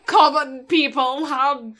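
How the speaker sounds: lightly hammed-up snob looking down on commoners; snooty aristocrat. Mocking her friend, a champagne-sipping snob voice.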